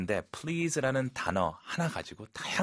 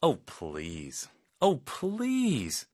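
"Oh, please" with a long falling "oh", second take much higher; sarcastic oh please; 4 semitones higher, much slower than usual. Shown as a demonstration. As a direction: scoff in disbelief. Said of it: "이 억양이 중요해요". (비꼬듯 억양을 살린 "Oh, please")

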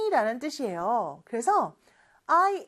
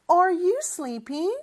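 slow model reading; 6 semitones higher, much slower than usual. Shown as a demonstration. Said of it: "이렇게도 물어볼 수 있겠죠".

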